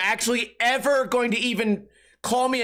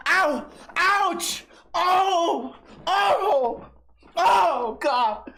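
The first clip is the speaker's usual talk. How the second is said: high hammed-up yelps of pain; comic high cries of fake pain; mock pain yelps; 8 semitones higher, much slower than usual. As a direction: yelp like it really hurt, laughing. Mock pain at being photographed.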